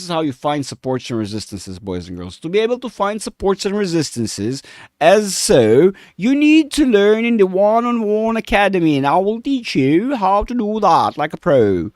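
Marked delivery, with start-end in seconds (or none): 2.4-11.9 high, loud goofy alien voice. Pretend. Trader pitching his academy to viewers, as a goofy alien. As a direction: pitch the sales line like a silly alien. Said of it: "That was an alien".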